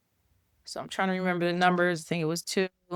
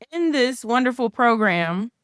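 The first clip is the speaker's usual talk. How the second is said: sarcastic praise, raised pitch; 4 semitones higher than usual. Real, not acted. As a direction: say it with a knowing sarcastic lilt. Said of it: "I'm being a little sarcastic".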